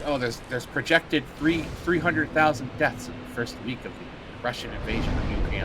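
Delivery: lightly voiced solemn anchor; mock news host. Streamer imitating Phil's grim war coverage, mock news read. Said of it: "And now he's like".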